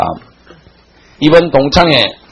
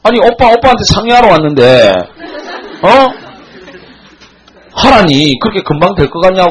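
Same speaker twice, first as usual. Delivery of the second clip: higher-pitched mock indignant protest; retold angry outburst; 5 semitones higher than usual. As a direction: imitate someone suddenly flaring up at being brushed off. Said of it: "갑자기 화를 팍 내는 거야". (발끈 화내는 흉내)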